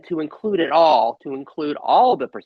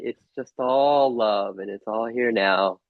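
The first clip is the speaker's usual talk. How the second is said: gentle reassurance; 5 semitones lower than usual. Acted. Love speaking to Sid to console him, gently reassuring.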